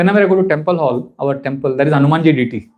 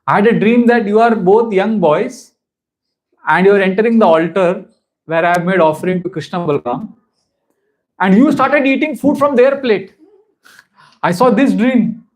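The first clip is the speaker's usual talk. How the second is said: mother recounting dream. Retold or imitated. Sachimata tells her dream.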